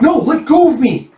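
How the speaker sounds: high, loud protest while struggling; struggling scream. Acted. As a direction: shout it while pulling free. A girl is taken away.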